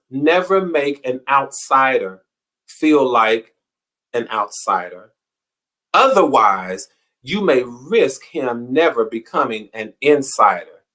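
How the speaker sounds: slow, deliberate reading of a quote. Shown as a demonstration. Host reading the quote for May twenty-seventh, slow and deliberate. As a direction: read it out word by word, weighing each phrase. Reads the day's quote slowly.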